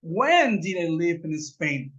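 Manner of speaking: slow, careful teacher's demo of the question; a teacher's slow example; slow model question. Shown as a demonstration. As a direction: lay it out slowly for the class. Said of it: "Porque estoy diciendo".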